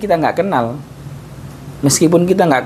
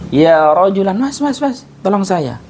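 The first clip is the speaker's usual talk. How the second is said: blind man pleading; 5 semitones higher than usual. Shown as a demonstration. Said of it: "Tapi dia dalam keadaan buta".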